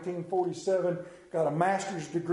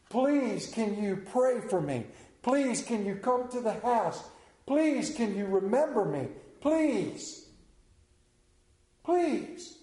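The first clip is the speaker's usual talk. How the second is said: rising pleading please; beg, climbing higher each time; pleading asker; 4 semitones higher, slower than usual. Acted. Preacher voicing people begging for help, higher pleading.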